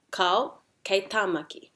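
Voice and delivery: detached KAU, pause, then TĀMAKI corrected; debating. Shown as a demonstration. Teacher models debating in te reo, KAU then correction. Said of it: "but we debate it".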